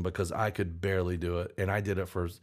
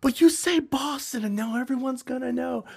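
higher, put-on complaining voice; raised mock voice for the girlfriend; mimicking girlfriend; 4 dB louder than usual. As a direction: whine it like a worried partner. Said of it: "and she was like".

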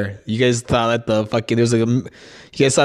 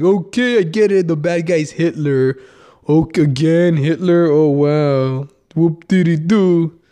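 mock-bored, pitched up, sarcastic drag; sarcastic boredom; 4 semitones higher than usual. Podcaster mocking repetitive war movies, sarcastic and bored. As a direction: roll your eyes at every Hitler movie.

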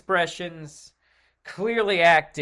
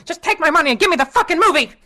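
put-on desperate shouting kid; 13 semitones higher, 11 dB louder, much faster than usual. Kid gives in, yelling.

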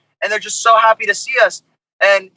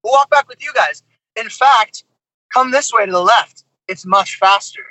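insistent fan; 4 semitones higher than usual. Retold or imitated. Imitating the fan insisting on walking back, high and pushy. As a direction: push hard, won't take no. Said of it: "They're like".

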